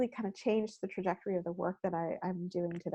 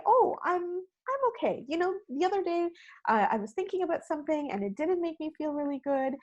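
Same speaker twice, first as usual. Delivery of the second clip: candid Swede; 6 semitones higher than usual. Retold or imitated. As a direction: answer the greeting for real, thinking aloud. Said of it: "They say".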